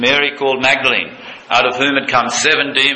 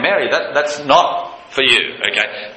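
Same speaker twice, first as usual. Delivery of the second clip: gentle warning; 3 semitones higher than usual. Retold or imitated. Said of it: "just a warning".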